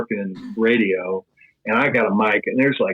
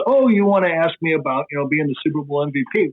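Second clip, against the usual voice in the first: higher, gently coaxing voice, quickening in the middle; kindly prompting; 5 semitones higher than usual. Retold or imitated. Kurt Warner coaxing the stuttering teen reporter, in a kind, higher voice. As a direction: help a starstruck kid along.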